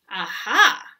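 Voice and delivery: excited aha. Acted. Goat's eureka exclamation.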